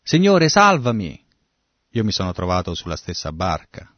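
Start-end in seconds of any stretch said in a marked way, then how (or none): 0.0-1.2 high, loud, drawn-out plea; acted call for help. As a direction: cry out slowly and high for rescue. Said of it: "lui sapeva chi chiamare". (invocazione d'aiuto, acuta e forte)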